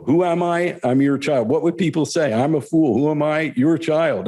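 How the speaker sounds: lightly voiced guru reassuring a student; Gurudev. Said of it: "retelling Gurudev's answer".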